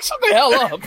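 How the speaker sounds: mock annoyed retort. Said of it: "I was like".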